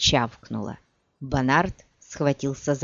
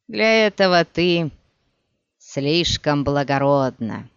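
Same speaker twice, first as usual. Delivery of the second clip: slow, strained words of a beaten man; bitter defeated villain, speaking slowly; dying villain voice; slower than usual. Acted. Dying Bonart pleads slowly. (медленный голос поверженного злодея)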